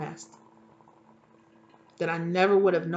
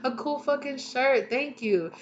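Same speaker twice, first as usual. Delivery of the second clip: excited thanks; 7 semitones higher, 3 dB louder than usual. Retold or imitated. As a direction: gush to grandma about the shirt. Excited thanks to grandma retold.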